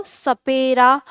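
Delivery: सपेरा slowly with a long पे; सपेरा said slowly, beginning on dental स; drawn-out word demo. Shown as a demonstration. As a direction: stretch सपेरा out for learners. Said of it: "इस तरह से हम लिख रहे हैं".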